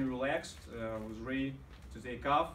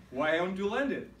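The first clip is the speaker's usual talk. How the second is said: loud, high exasperated outburst; re-enacted angry demand; out of patience; 6 semitones higher, 5 dB louder than usual. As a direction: blurt it out, acting fed up. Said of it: "I was really nervous, without any patience".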